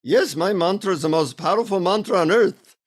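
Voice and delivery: a light imitation of an Indian accent; lightly put-on Indian accent for the guru; mildly imitated Indian accent, grand and sure. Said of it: "in his Indian accent".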